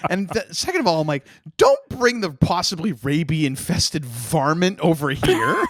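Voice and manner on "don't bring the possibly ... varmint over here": higher-pitched, hammed-up protest; mock alarm. Friend warning off a squirrel charmer, mock alarm. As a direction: play up alarm about a pest.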